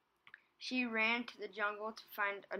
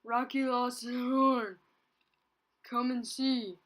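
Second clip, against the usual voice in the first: out of breath; 4 semitones higher, 8 dB louder than usual. A narrator's reading.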